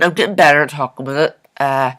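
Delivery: talking around a retainer; slightly slurred by a retainer; wearing a retainer. Real, not acted. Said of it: "I have my, uh, retainer thing in".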